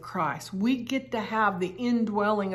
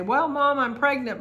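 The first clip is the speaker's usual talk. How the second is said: put-on teenage girl; 5 semitones higher, 5 dB louder than usual. Voicing teenage daughter's confession.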